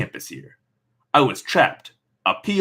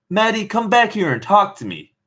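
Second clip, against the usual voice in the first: higher mom calling after her; a hint of a mother calling up the stairs; 10 semitones higher than usual. Mom calling after daughter leaving, lightly voiced. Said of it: "Mom called after me".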